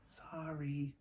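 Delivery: soft whispered apology; whispered sorry. A narrator's reading. Annie whispers sorry after yelling. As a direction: breathe the word, ashamed. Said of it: "whispered Annie".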